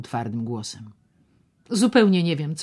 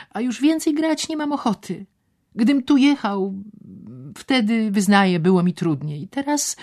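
much higher and louder, boastful; voiced excited man; 8 semitones higher, 5 dB louder than usual. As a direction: show off the winnings. Szczerbic explains his winnings.

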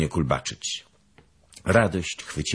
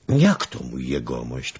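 astonished; 4 semitones lower than usual. Acted. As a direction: react in disbelief. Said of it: "pytał zdumiony Rzędzian". (zdumione pytanie)

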